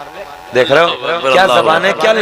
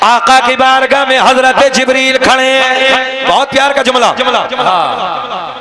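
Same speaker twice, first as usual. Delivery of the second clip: rhythmic chanted lineage, held at full preaching force; preaching recitation; 6 semitones higher, 5 dB louder, slower than usual. Acted. Preacher reciting the lineage to the gathering, full preaching. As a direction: intone each name to the crowd like a sermon. Hadith with Jibreel's words.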